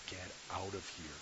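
low, quiet, worn-out order; defeated dismissal. Acted. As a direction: send them away softly, all fight gone. Defeated Pharaoh dismisses the Hebrews.

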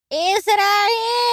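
put-on high, loud sung-out old woman call; loud sung wail in an old woman's voice; singsong granny wail. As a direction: wail the name like a tune. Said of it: "завопила я".

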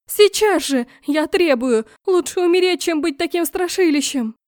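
high loud tantrum; furious yelling. Acted. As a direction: princess keeps screaming demands at her brother. Princess keeps yelling at brother.

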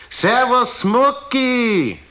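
high, loud call across the opera house. Acted. Bobby calls down from the box to Mucki, high and loud. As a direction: shout a greeting down to the stalls. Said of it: "da schreit er runter".

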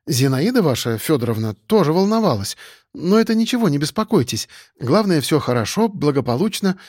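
a hint of an awkward, friendly girl; lightly voiced young woman, eager and shy. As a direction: play a bashful, caring colleague, lightly.

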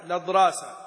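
"لضراسة" begun on the lam, no hamza; connecting hamza dropped. Shown as a demonstration. Teacher repeats the verse word for students, "لضراسة" with hamza dropped. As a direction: blend the article into "لضراسة" by moving the vowel onto the lam. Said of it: "بالنقل مع حذف همزة الوصل".

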